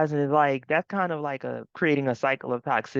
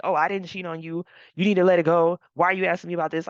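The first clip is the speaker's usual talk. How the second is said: rude and short; 5 dB louder, faster than usual. Retold or imitated. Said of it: "he was being so rude, so short with her".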